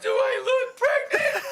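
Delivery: woman insulted from upstairs, offended shriek. Retold or imitated. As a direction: play the hurt heckler. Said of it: "She goes".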